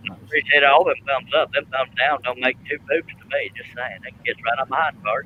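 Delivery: tinny transistor radio sound. Real, not acted. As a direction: voice coming through a small transistor radio. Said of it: "sound like you're in a transistor radio".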